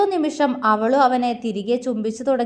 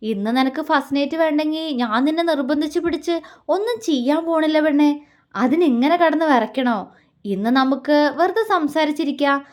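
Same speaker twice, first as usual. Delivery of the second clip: loving. Acted. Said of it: "അവൻ പ്രണയത്തോടെ ചോദിച്ചു".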